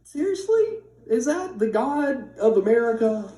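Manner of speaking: indignant seriously, slowing down at the end; exasperated disbelief. Retold or imitated. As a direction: retell your own outrage with a bite. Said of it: "But I was like".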